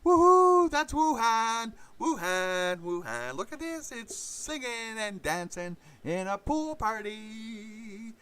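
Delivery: mocking high voice. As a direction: mimic an overexcited partygoer, way up high. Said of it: "with a rising tone of voice".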